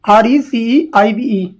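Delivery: letters spelled out slowly one by one; slow spelling. Shown as a demonstration. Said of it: "रिसीव की spelling ये होती है". (अक्षर-अक्षर धीरे-धीरे बोलना)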